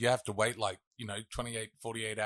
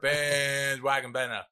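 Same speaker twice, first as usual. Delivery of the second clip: attempted English accent; slower than usual. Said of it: "can you give me your best English accent".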